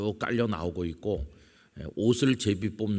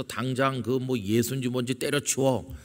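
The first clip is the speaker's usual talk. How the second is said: higher, lightly acted dismissive order; scornful persecution; 4 semitones higher than usual. Relatives ordering the believer to quit, mock scornful. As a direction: imitate an impatient relative's put-down. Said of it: "이런 핍박을 받으신 분들도".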